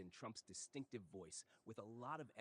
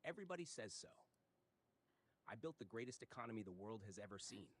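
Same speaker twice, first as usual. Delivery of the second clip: Trump impression. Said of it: "phonetic impersonation of Trump's speech".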